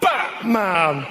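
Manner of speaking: half-hearted Batman, slow; mock Batman. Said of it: "You don't get that with other heroes".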